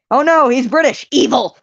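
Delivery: loud, high, hammed-up gasp of horror; mock alarm. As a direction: play fake shock at a British villain. Mock alarm at British villain.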